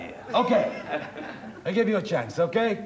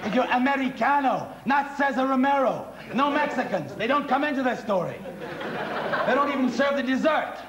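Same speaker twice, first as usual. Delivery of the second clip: higher-pitched scolding; exasperated scolding; 4 semitones higher than usual. Acted. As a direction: lecture the singer in exasperation. Conductor scolds singer over accent.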